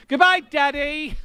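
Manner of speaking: put-on high, slow little-boy goodbye; childlike Pinocchio. Pinocchio saying goodbye to his daddy, high and slow. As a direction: say it like a cartoon puppet boy. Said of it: "he doesn't say father".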